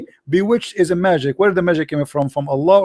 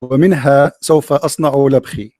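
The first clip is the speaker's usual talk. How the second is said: low, measured classical Arabic recitation; mock classical poetry; 4 semitones lower than usual. Shown as a demonstration. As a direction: declaim an improvised insult in formal Arabic verse. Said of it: "I just made a poetry". (إلقاء شعر هجائي بالفصحى)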